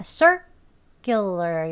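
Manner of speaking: "circular" with a tight unaspirated kk after "sir"; tense k sound. Shown as a demonstration. Teacher demonstrating the tense consonant, "circular" as "sir-kkyuler". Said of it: "된소리입니다".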